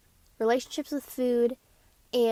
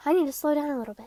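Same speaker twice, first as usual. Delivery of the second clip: fast, rushed chatter; talking fast; 3 semitones higher, much faster than usual. Real, not acted. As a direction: rush the words out. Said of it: "I'm talking a little fast".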